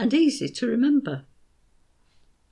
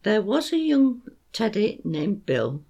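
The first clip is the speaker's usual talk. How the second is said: put-on beats marked on young, teddy, Bill; stressed rhythm. Shown as a demonstration. Teacher showing parents the beat, stressed. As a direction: tap out the rhythm of "There was a young teddy named Bill". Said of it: "Here's how it works".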